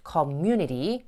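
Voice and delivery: "community" with weight on the second syllable; unstressed start, strong MU in "community"; stress on MU. Shown as a demonstration. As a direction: lean on MU in "community". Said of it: "뒤로 강세가 가거든요".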